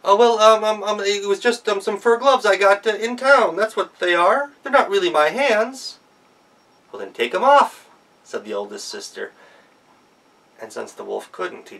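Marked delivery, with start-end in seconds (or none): 0.0-6.0 high, loud stammering excuse; flustered wolf. Acted. 6.9-7.9 a hint of a sharp big sister; sassy sister. Sister challenges wolf.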